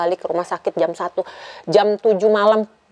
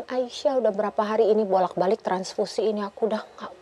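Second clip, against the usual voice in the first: tearful; 8 dB quieter than usual. Retold or imitated. Retelling tearful call to mother.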